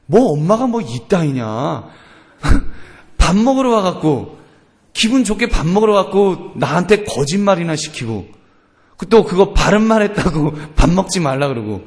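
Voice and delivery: acted child's aggrieved grumbling; lightly hammed-up sulky protest; indignant child. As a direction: complain about mom with mock outrage. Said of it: "애가 얼마나 노엽겠습니까".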